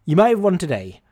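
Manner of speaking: loud pub-style declaration; loud boast. Retold or imitated. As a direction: call it out loud so the table hears. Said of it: "said very loudly".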